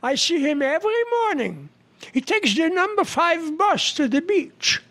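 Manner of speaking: put-on high-pitched party guest, Jewish accent. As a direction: boast of knowing him, in a Jewish accent. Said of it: "with a Jewish accent".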